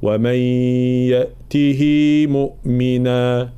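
"يأته" with the هاء stretched into a long ي; lengthened reading. Shown as a demonstration. Teacher showing the second valid reading. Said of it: "أي نمدها فنقول".

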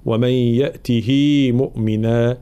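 "يأته" with a short, unlengthened هاء; Quranic recitation. Shown as a demonstration. Teacher reading the verse the short way. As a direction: read "ومن يأته" with the ha cut short. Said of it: "نمدها بالصلة فنقرأها".

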